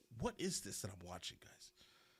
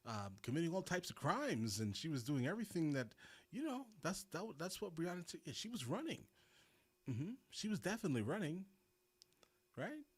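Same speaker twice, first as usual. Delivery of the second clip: mock-earnest sarcasm, higher pitch; sarcastic; 4 semitones higher than usual. Real, not acted. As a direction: sell it as fake agreement. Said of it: "Please note my sarcasm".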